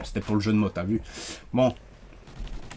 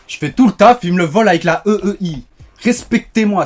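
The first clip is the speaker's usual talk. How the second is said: indignant; 6 semitones higher, 7 dB louder than usual. Real, not acted. Complaining about stolen kill.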